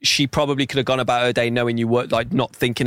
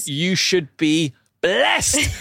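mock proud mum; 4 semitones higher, much slower than usual. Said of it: "complimenting her daughter".

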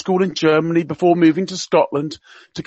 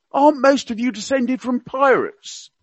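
higher, hammed-up Cockney accent; Prince Philip in Cockney; 8 semitones higher than usual. Radio guest quoting royal gaffes to listeners, mock Cockney accent. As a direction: play the old duke's gaffes in mock Cockney. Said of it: "he spoke with a Cockney accent".

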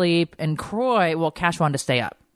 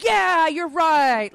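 mock agreeing; 11 semitones higher, much slower than usual. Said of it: "And I was like".

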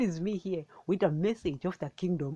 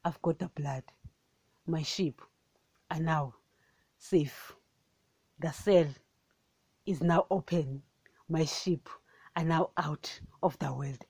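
hushed Lord's voice; 3 semitones lower than usual. Retold or imitated. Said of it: "he's like".

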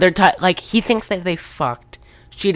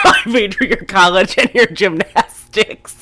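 Steve Lesh; 4 semitones higher than usual. Retold or imitated. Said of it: "He's gonna pull a Steve Lesh".

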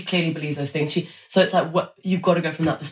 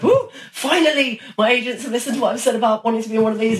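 mock thrilled whoop; 5 semitones higher than usual. Actor gushing to herself about finally landing a role, excited. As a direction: squeal with glee at the news, laughing.

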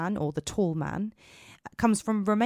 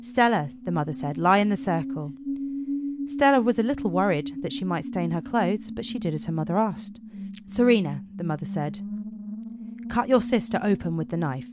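measured storytelling voice; story narration. Acted. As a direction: tell it like a dark fairy tale. Narrates Romanian fairy tale.

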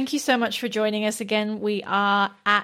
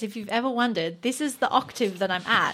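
phone voice; 3 semitones higher than usual. Shown as a demonstration. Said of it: "what I sound like on the phone".

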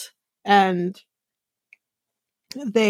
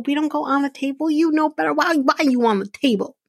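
higher, faster mock scold; scolding a pet; 6 semitones higher, faster than usual. Imitating her scolding Rico off the table, mock sharp. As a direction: tell off the dog like a naughty child.

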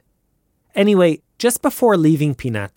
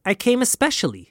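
impatient; 9 semitones higher, 3 dB quieter, faster than usual. Acted. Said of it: "he said impatiently".

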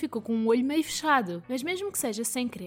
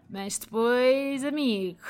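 mustache twirling villain; slower than usual. Acted. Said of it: "entro demasiado em personagem".

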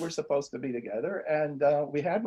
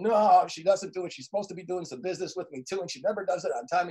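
complaining. Retold or imitated. Coach imitates client griping about his partner, complaining. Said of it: "He's always complaining about this lady".

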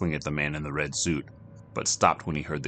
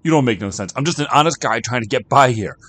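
shouted, rising much higher, slowing at the end; raging; 10 semitones higher, 13 dB louder than usual. Acted. Jack yelling at Kino, building outraged shout.

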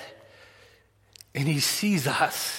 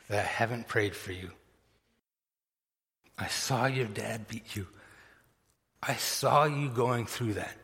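softly voiced, unhurried pastor's reassurance; quiet, heartfelt retelling with long pauses; tender confession; 3 dB quieter than usual. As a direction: speak gently and sincerely, letting each sentence settle. Pastor's tender confession to Shank, retold.

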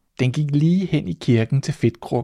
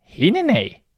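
mouse cries out; 10 semitones higher, slower than usual. Acted. Mouse shocked by the odd name, crying out high. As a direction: squeal the name in disbelief. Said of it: "råbte musen".

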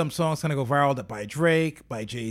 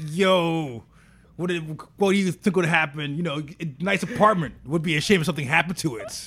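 friendly threat; 4 dB louder than usual. Retold or imitated. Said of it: "She's out here with that Leo Cohen".

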